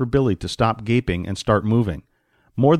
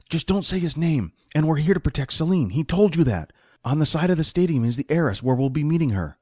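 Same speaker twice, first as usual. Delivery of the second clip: lightly voiced companion, pitched higher; slightly higher voice, shushing and explaining; hushing companion; 5 semitones higher than usual. Voices Jack in the story.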